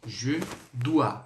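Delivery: "Je dois" as zhe DWA, clearly for the class; teacher models "Je dois" carefully; French pronunciation. Shown as a demonstration. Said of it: "essa é a pronúncia". (professor pronuncia "Je dois" devagar)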